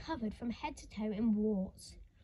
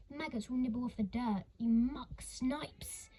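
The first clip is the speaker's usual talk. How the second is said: sniggering. Acted. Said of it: "Missus Curdle would snigger".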